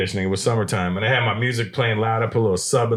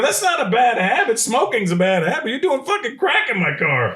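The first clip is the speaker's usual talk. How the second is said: incredulous rant; 10 semitones higher than usual. Retold or imitated. Berating the crack-smoking girl.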